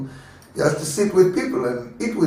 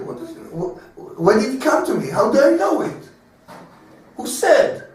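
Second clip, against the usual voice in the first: bewildered thoughts; 10 semitones higher than usual. Retold or imitated. Friend's bewildered inner thoughts.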